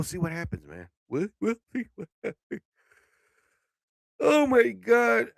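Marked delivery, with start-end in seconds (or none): 4.2-5.3 slow, loud, stretched out; loud drawn-out groan. Real, not acted. Waking himself up.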